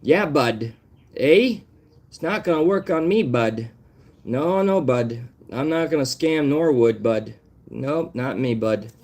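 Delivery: hammed-up Canadian impression; Canadian Carl. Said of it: "In the words of the wise Canadian Carl".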